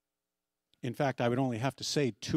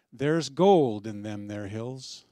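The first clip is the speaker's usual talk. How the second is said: put-on slow, louder old-time prospector's quote; Klondike Sam; 6 dB louder, slower than usual. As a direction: stretch it out like a Yukon gold hunter. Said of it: "the final word here to Klondike Sam".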